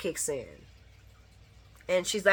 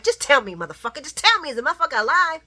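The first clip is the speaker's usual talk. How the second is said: impatient demand; 7 semitones higher, 8 dB louder, faster than usual. Retold or imitated. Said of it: "you could tell she was like".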